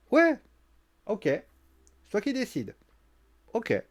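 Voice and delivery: drawn-out "ok, c'est toi qui décides" with mock agreement; slow sarcastic concession. Becky mocking Bayley's bossiness, slow sarcastic drawl. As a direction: pretend to give in, dragging it out. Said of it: "Je lui fais".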